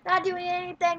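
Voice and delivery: breathless running game commentary; lively sportscaster-style game call; live play-by-play. Real, not acted.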